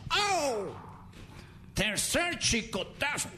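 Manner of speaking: high hammed-up cries of para; high mock pleading; mock begging. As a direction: beg them to stop. Begging under whip.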